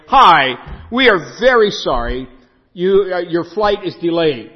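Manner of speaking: loud, bright mock gate announcement; chirpy airline announcer. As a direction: play the cheery airline voice apologising. Corrected airline announcement, cheerful.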